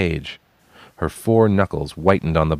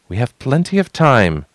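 louder, higher, harsh retort; 7 semitones higher, 5 dB louder than usual. Acted. Cornered girl snapping harshly at the stranger. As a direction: bite the words out harshly. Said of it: "she found herself saying harshly".

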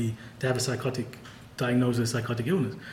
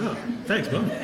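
sarcastic; 6 semitones higher than usual. Retold or imitated. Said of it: "And I was like".

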